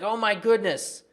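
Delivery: mock doom-laden outcry; mock panic. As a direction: imitate the panicking crowd, mildly overwrought. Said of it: "Everyone's panicking".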